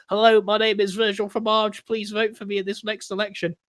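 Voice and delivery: lightly voiced mayor addressing voters; a hint of a candidate announcing himself; campaigning mayor. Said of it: "as the mayor".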